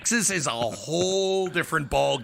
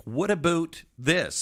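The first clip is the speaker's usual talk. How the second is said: mock Canadian accent; slower than usual. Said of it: "can't talk tough with that accent".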